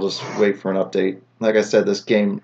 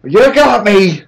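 higher, louder, slow hammed-up cry; mock defeat; 9 semitones higher, 12 dB louder, slower than usual. Player caught by the jack-in-the-box, louder and higher in hammed-up defeat. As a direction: throw up your hands and ham it.

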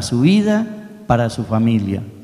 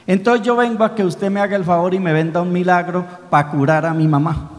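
lightly voiced small boy, earnest and higher; a poor boy politely explaining his sick mother; little boy's voice; 5 semitones higher than usual. Niño explica al farmacéutico, voz infantil sincera. Boy asking pharmacist for miracle.

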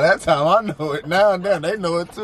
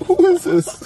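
indignant; 12 semitones higher than usual. Real, not acted. Mocking a slow driver ahead.

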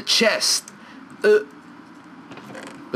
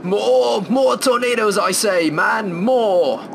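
high, loud call for more; gleeful demand for more; excited; 7 semitones higher, 4 dB louder, much slower than usual. Real, not acted. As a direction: cheer on the tornadoes. Excited chant for more tornadoes.

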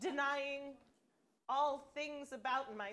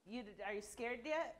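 soft menace; 3 semitones lower, 6 dB quieter than usual. Acted. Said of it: "I'm a little comforted by the tone of your voice".

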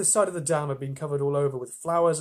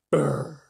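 burring noise; 3 dB louder than usual. Shown as a demonstration. Imitates the sewing machine's burring sound.

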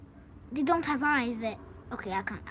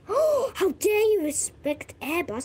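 mock outrage; 4 semitones higher, slower than usual.

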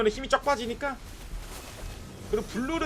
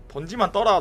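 ordinary delivery

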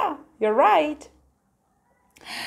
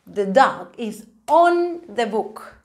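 slow model sentence. Shown as a demonstration. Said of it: "teacher models sentence".

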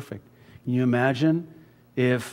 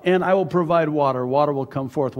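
raised, commanding voice of God; God's command; 3 semitones higher, 5 dB louder than usual. Retold or imitated. Preacher voicing God telling Moses to speak to the rock, commanding. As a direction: boom out the divine command. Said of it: "And so God says".

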